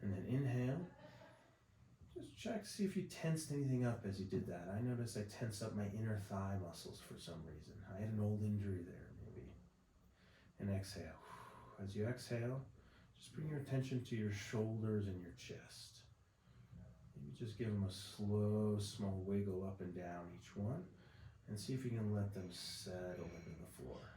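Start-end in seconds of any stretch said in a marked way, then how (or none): 0.0-4.7 calm, unhurried relaxation-exercise voice; softer than chatty talk, with long pauses; guided body scan. Acted. Leads breathing body scan. 10.6-24.1 calm, unhurried relaxation-exercise voice; softer than chatty talk, with long pauses; guided body scan. Acted. Leads breathing body scan.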